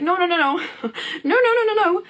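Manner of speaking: emphatic no. Pretend. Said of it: "And it's like".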